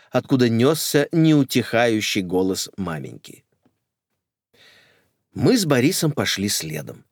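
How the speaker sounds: plain reading voice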